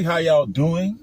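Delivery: y'all drawn out in a New Orleans lilt; New Orleans accent. Shown as a demonstration. Vlogger greeting his viewers in a New Orleans accent. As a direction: greet the crowd New Orleans style on "How y'all doing?". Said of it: "That's my New Orleans accent".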